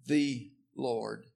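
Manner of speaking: The Lord with weight on The; stress on The. Shown as a demonstration. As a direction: lean on "The" before "Lord". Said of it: "emphasize each word individually".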